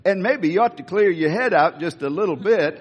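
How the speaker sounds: folksy, lightly voiced Southern sheriff; Andy Griffith. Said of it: "I almost hear Andy Griffith's voice in this".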